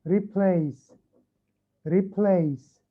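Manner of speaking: teacher's model reading of "replace", both syllables distinct; two-syllable demo. Shown as a demonstration. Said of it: "انتبه كيف عم بقرأها ببين معك". (قراءة "replace" بمقطعين واضحين)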